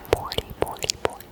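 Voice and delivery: faint whispered echo of a number; repeated trigger word. Pretend. Echoing a dye's number for ASMR listeners, very soft whisper.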